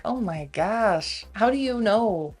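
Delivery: slow, drawn-out incredulous reaction; exasperated disbelief. Retold or imitated. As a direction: react as if you can't believe the denial. Her exasperated reaction to his denial.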